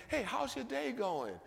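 high, bright mock-cheerful hello to the cashier; cheery greeting. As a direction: greet the cashier with a lifted, sunny voice. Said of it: "I say".

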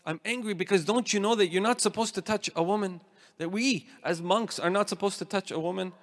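lightly acted scolding; mildly upset. Monk reproaching his companion for touching a woman, mildly indignant. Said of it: "was very upset with this monk".

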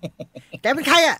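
put-on high, slow, bossy little girl; bratty girl voice. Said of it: "ผมเป็นพจมาน".

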